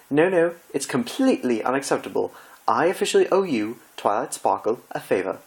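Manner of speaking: high, anguished theatrical gasp; dismayed Rarity. Acted. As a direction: wail as if the world is ending.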